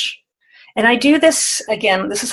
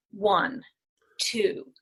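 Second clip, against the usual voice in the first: breathy whisper of a number; 9 dB quieter than usual. Shown as a demonstration. Coach showing a number whispered. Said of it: "say the number with a different emotion".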